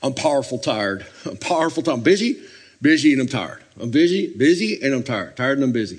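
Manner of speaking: lightly voiced Texan friend, slurring busy; hint of a folksy Texan, pitch lifting on busy; Max. Friend always answering busy and tired, light Texan impression. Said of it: "he goes".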